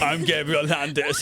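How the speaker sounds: laughing repeat of the hero line; hero intro, laughing. Pretend. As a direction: say it again, cracking up. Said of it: "Say it again".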